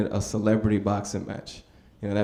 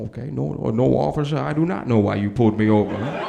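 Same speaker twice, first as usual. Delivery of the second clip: Denzel impression. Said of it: "my best Denzel impression".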